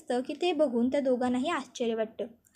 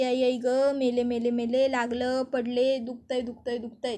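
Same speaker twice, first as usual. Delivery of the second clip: hammed-up fake moaning that fades to a whimper; feigned wailing. Aunt fakes a fall in front of the family, hammed-up moaning. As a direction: overdo the pain cries, then let them trail off. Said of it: "ती कांगावा करायला लागते".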